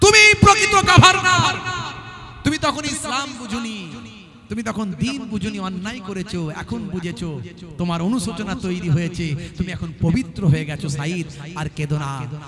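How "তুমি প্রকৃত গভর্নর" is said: high, loud, consoling calling voice. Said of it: "হযরত ওমর ফারুক বললেন".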